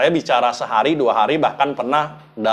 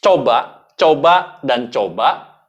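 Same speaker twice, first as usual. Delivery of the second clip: coba coba louder, punched out to drive it home; emphatic urging; 5 dB louder, slower than usual. Shown as a demonstration. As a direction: hammer each coba like a coach pushing. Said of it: "Lagi-lagi tidak ada yang instan".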